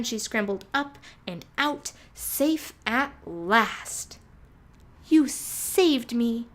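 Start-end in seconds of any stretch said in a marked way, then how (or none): 5.1-6.5 high, loud, slow grateful cry; exclaimed. A narrator's reading. Mouse thanking her rescuer, loud and grateful. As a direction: burst out in thanks. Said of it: "Sophie exclaimed".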